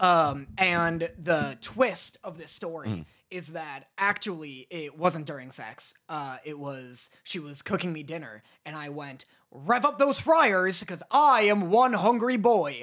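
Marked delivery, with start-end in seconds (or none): 9.6-12.8 silly, goofy put-on cartoon voice. Retelling what was said to her while she cooked dinner, put-on impression voice. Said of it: "Was that a good impression?".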